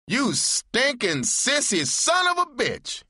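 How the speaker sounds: high, slow furious yell; shouted. A narrator's reading. Narrator shouting at the disguised lover in outrage. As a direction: spit the insult out in shock. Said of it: "I shouted".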